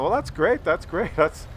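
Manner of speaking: polite retold small talk; a touch of polite interest; politely. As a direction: keep it politely chatty. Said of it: "politely talking to them".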